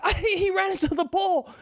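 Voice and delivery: high, flustered explaining. Retold or imitated. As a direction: stammer it out nervously. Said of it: "I was like".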